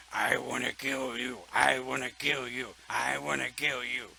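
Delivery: loud, chanted metal singer mockery. Mocking angry metal music to the group, loud chant. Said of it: "the only thing you can hear them say".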